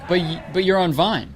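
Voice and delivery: imitating a fan. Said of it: "they'd be like".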